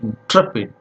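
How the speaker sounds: INTREPID with the stress on TREP; stress on second syllable. Shown as a demonstration. Teacher showing students where the stress falls, second-syllable stress. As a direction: lean on the middle of "Intrepid". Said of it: "here we have to give a stress".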